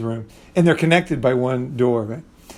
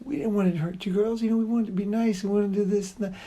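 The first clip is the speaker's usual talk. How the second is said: higher and much softer, tender pleading; soothing sweet talk; 6 semitones higher, 8 dB quieter than usual. Retold or imitated. He calms the two girls with a gentle pleading speech, soft and high. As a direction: coo it gently like calming someone down.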